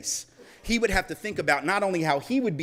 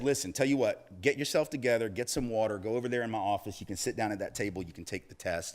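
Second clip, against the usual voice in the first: calm professor; 4 semitones lower, 5 dB quieter than usual. Retold or imitated. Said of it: "And he said".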